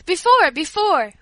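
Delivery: loud, high, drawn-out eager shout; slow, ringing excited call; excited cry. A narrator's reading. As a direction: cry out like impatient children. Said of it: "we all cried".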